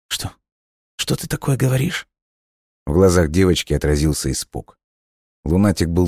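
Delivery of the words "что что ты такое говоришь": put-on high, alarmed girl's voice; frightened girl. A narrator's reading. Frightened girl questions the dying boy, high and alarmed. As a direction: ask in sudden fear.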